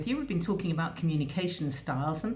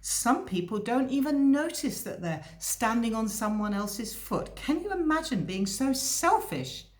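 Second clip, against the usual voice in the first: loud stage whisper; 5 semitones higher than usual. Retold or imitated. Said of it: "say in a loud stage whisper".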